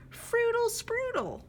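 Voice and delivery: high, squeaky silly birdcall; playful high nonsense chirp; silly bird song. Acted. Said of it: "Something silly".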